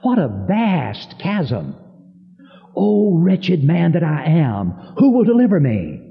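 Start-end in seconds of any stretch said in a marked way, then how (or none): 2.8-6.0 high, urgent quoted plea; anguished cry. Retold or imitated. Preacher re-quotes Paul's plea for deliverance, high-pitched anguish. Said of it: "he literally cries out".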